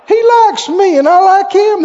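high, loud, laughing reply; cheerful reply. Retold or imitated. A preacher laughing off gossip, high and loud. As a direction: laugh it off brightly.

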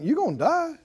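ordinary delivery

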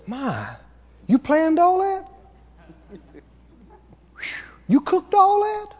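high, gushing admiring voice; gushing admirer. Retold or imitated. Guests gushing over the host's party, high gushing praise. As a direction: coo it like a flattering guest. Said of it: "to you and said".

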